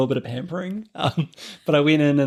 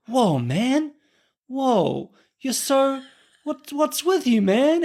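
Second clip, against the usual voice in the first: much higher, exaggerated Australian bloke voice; blokey Aussie barber; 11 semitones higher, much slower than usual. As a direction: mimic the rugged Australian barber mocking him. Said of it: "he's like".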